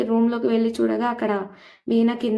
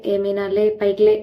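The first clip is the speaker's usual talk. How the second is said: mock-stern wake-up call, louder at the end; retold loud order; 5 dB louder than usual. Mother-in-law ordering sleeping Meena up, retold loudly. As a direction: imitate a loud command, building on the last words. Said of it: "Prabhavati గట్టిగా అంటుంది".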